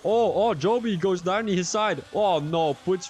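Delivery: excited. Real, not acted. Crash on track.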